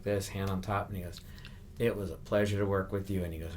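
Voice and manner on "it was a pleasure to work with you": sincere, unhurried thanks at a natural pitch; heartfelt, evenly pitched courtesy; genuine. Retold or imitated. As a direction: say it like you truly mean it. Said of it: "but it wasn't, uh, genuine".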